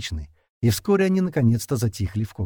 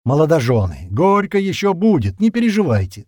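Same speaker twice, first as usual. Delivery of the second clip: teasing toast; 6 semitones higher, 6 dB louder than usual. Acted.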